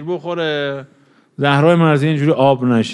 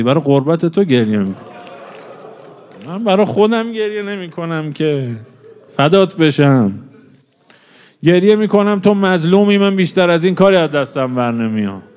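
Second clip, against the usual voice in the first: higher, louder anguished plea; grieving cry; 4 semitones higher, 3 dB louder than usual. Acted. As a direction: cry out his grief to her. Ali answers weeping Fatima, preacher voicing. (فریاد سوگوارانه و بلندتر)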